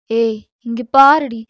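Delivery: loud, slow call to get her attention; sharp slow summons; firm call. Acted. Husband confronting wife.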